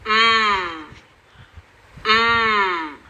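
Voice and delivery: म hummed with closed lips, no vowel; phonics m sound. Shown as a demonstration. Teacher showing the m sound as a closed-lip hum. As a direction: close the mouth and just hum म. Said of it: "मुंह बंद करके सिर्फ म की sound निकालनी है".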